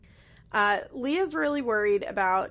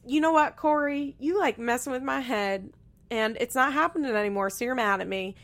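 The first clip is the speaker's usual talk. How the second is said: put-on raised, higher voice of an upset girlfriend; imitating her defensive outburst on the phone; mock upset Leah; 3 semitones higher than usual. Leah on the phone with Corey, a higher upset mock voice.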